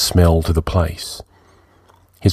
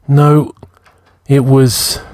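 sudden insistence; 6 semitones higher, much slower than usual. A narrator's reading. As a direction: snap back to correct yourself. Narrator's sudden correction.

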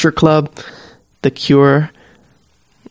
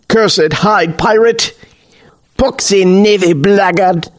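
brawling curses; 5 semitones higher than usual. Acted. Two men brawling and cursing.

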